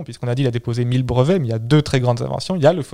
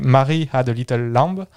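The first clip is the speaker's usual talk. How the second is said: English nursery line in a French accent, slowly; slower than usual. Shown as a demonstration. Host quoting Edison's first recording, slow French-accented English. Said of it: "je vais le dire avec mon accent".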